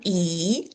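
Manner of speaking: E held long and tense; a drawn-out, smiling E; long E sound. Shown as a demonstration. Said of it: "say the long E sound".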